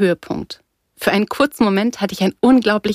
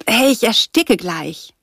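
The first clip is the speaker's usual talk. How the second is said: high, drawn-out outcry; choked protest; 4 semitones higher, slower than usual. A narrator's reading. Girl to her rescuer squeezing her neck, choked protest. Pulled choking from a tight grip.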